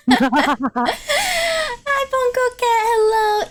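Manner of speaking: high, giggling hello; giggly greeting. Real, not acted. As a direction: greet them through laughter. Greeting a cat friend, giggling.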